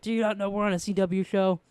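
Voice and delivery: high-pitched, hammed-up exasperated lecture; mock exasperation. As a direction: imitate someone fed up, spelling out the obvious. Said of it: "he should be like".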